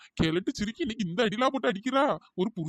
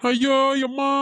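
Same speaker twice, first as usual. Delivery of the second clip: a loud cry of pain when struck; pained yell; 2 semitones higher, 4 dB louder, slower than usual. Acted. Husband hit by his wife, yelling out in pain. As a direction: yelp out loud as the blow lands.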